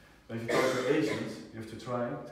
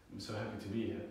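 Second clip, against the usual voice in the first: unhappy flat pitch; 2 semitones lower, 5 dB quieter, faster than usual. Shown as a demonstration. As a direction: say it like you don't mean it. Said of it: "it doesn't sound like I'm that happy".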